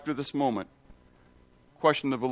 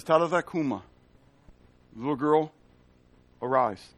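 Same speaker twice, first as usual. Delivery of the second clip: gentle command. Retold or imitated. Jesus raises the girl.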